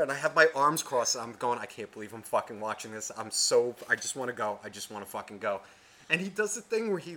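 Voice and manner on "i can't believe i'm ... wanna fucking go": low-key, softer grumble; quiet acted disbelief; retold dismayed muttering. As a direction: say it under your breath, wanting out. Muttered disbelief, arms crossed, retold.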